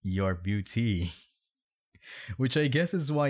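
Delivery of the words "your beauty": "beauty" slowed, with a long final ee; mocking a misspelling. Shown as a demonstration. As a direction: drag out the end of "beauty" to show the stray I. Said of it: "Why is there an I on".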